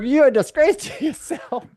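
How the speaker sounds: high-pitched put-on Asian-French accent; mock Asian-French accent. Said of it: "the Asian French people".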